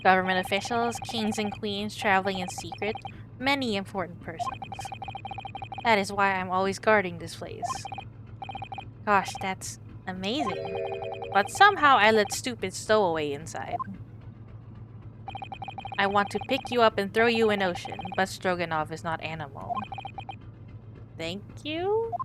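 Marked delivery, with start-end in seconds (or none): 0.0-7.8 proud Russian sailor introducing himself. Acted. 11.3-19.7 proud Russian sailor introducing himself. Acted.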